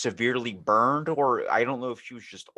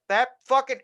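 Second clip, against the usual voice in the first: shocked outburst; 6 dB louder than usual. Retold or imitated. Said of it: "And I was like".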